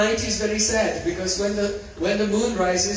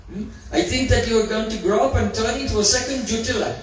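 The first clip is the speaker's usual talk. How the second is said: raised, mocking, boldly spoken taunts; bold teasing Lalita. The speaker as Lalita teasing Sarangi, raised mocking taunts. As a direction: tease the little girl like bold Lalita. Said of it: "very convincing impression of Lalita Sakhi ... very boldly spoken".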